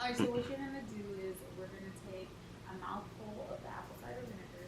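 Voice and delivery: fast salesy pitchman read; infomercial voice. Acted. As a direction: sell it like a TV ad. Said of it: "Why are you talking like an infomercial?".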